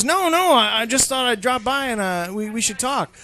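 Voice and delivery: a hint of a salesman easing in; friend in a suit. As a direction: friend about to pitch, mildly serious. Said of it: "And he goes".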